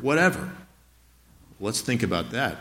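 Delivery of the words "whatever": "Whatever" singled out, pitched higher; stress on WHATEVER. Shown as a demonstration. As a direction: lift the word "Whatever" by itself to emphasize it. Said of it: "what's the first word?".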